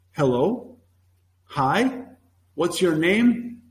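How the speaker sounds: slow, measured mock book phrase; textbook-style reading. Teacher mocking book-bound lessons, slow textbook recital. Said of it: "some teachers actually use the book".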